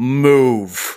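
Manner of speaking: intimidating, penetrating, piercing voice. Describing how he intimidates anyone nearby, penetrating voice. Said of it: "in a very penetrating voice just goes".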